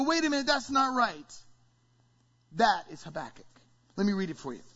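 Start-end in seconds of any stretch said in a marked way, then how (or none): 0.0-1.4 startled objection. Acted. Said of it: "we go".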